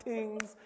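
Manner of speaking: "things" said as "tings", Jamaican style; Jamaican pronunciation. Shown as a demonstration. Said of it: "it's what Jamaicans do".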